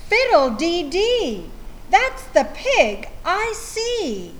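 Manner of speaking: a farm lady crying out at the muddy pig; cried out. Acted. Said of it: "Missus Wishy-Washy cried".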